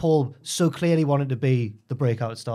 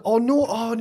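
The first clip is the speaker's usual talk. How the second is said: higher, whimpering mock despair; mock breakdown; 8 semitones higher, 3 dB louder than usual. Lad breaking down on the show, higher mock whimper. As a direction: wail it like a man falling apart. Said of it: "He was having a genuine, like".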